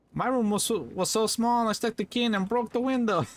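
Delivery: lightly imitating a comedian's punchline; quoting the comedian. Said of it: "One of the funny ones he said".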